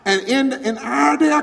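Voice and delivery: laughing while speaking. Real, not acted.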